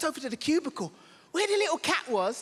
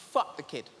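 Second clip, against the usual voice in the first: put-on very low, flat menacing girlfriend; deep deadpan demand; 9 semitones lower than usual. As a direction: growl it like a cold demand. Girlfriend's look voiced low.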